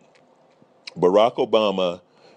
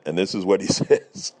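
rueful laugh. Real, not acted. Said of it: "I have to laugh".

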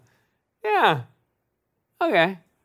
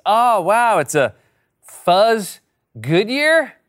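lightly voiced kid, excited, loud opening; a kid thrilled by a cheap toy; 3 semitones higher, 4 dB louder, slower than usual. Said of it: "rip-off dollar store action figures".

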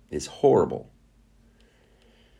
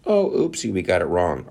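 mock oopsie. Mocking the media's non-apology.

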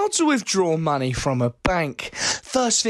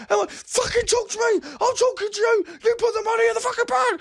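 high shrieking robber yelling orders; bank robber; 13 semitones higher than usual. Acted. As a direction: scream it like a crazed robber. Robber shouts at staff.

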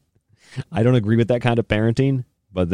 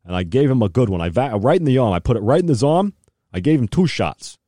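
much higher, louder mock reassurance; Doctor Fauci impression; 6 semitones higher, 3 dB louder than usual. Mocking an official reassuring the public, higher and louder. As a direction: play a smug official boasting. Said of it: "And Doctor Fauci's like".

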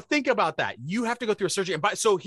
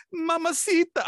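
mock Mexican accent; 12 semitones higher than usual. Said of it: "I won't do a horrible racist accent".

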